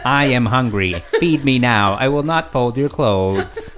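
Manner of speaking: loud, slow robot demanding food. Pretend. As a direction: stiff robot making demands. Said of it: "You make that robot voice fairly well".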